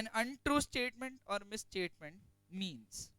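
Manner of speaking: slow, emphatic reading of the textbook line; slow dictation. Acted. Teacher dictating notes to students, slow and emphatic. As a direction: dictate every word slowly to the class.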